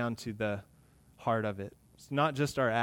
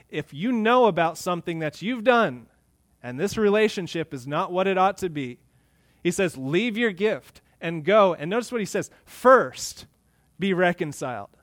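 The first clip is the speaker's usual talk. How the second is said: forceful preaching; 4 semitones higher, 5 dB louder than usual. Real, not acted.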